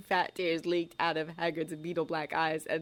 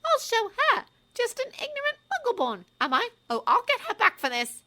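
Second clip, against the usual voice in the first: put-on high, loud, furious girl's voice; shaking with rage; 5 dB louder than usual. A narrator's reading. Hermione vowing revenge on Umbridge, high furious voice. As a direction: boil over with rage. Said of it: "She was shaking with rage".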